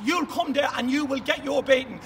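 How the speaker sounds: shouted warning of a beating; angry threat. Real, not acted. Warning Ginty he'll get a beating, angry shout. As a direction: lay down the threat with force.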